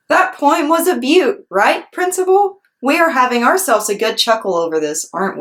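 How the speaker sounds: put-on high, eager little girl; hopeful, pleading little girl; Junie B voice.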